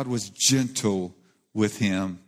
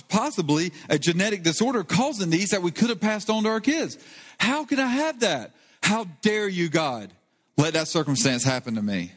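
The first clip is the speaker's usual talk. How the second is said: anguished outburst; 6 semitones higher than usual. Retold or imitated. Wife's anguish, pitch far up.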